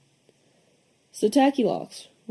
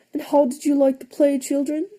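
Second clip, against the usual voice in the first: higher, sweet teacher voice; teacher asking; 7 semitones higher than usual. A narrator's reading. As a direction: ask it like a cheerful schoolteacher. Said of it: "she asked".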